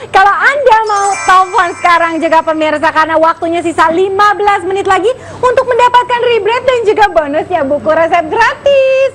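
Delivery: upbeat TV shopping pitch; infomercial. Acted. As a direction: sell it to the viewers at home. Host pitches the product to viewers. (gaya promosi TV belanja)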